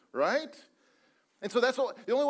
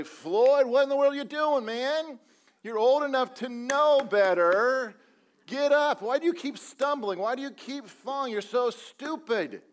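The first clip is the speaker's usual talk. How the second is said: louder, higher berating yell; harsh scolding; 6 semitones higher, 6 dB louder than usual. Pretend. Imagined impatient God yelling at Floyd for stumbling, loud and scolding. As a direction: tear into him like an impatient boss.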